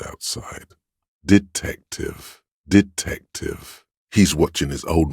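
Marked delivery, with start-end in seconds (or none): 1.2-2.4 high, slow, drawn-out syllables; high lingering word, each syllable drawn out; lingering call. Acted. Word left lingering in the air. 2.7-3.8 high, slow, drawn-out syllables; high lingering word, each syllable drawn out; lingering call. Acted. Word left lingering in the air.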